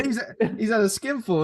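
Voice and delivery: talking through real laughter; laughing. Real, not acted. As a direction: say it while cracking up. Cracking up while repeating own joke.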